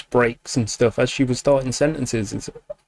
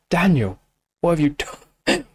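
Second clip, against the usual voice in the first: a slightly hushed, stunned question; awed, hushed first reaction; stunned murmur; 2 semitones higher than usual. Real, not acted. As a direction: say it like it just floored you.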